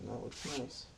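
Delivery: hushed, breathy whisper of approval; gentle painting instructor. Acted. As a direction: murmur it softly like a calm TV painter. Soft aside while painting.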